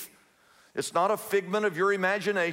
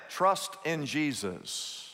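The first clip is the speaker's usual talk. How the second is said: calm reassurance; 5 semitones lower, 5 dB quieter, slower than usual. Acted. Pastor answers calmly.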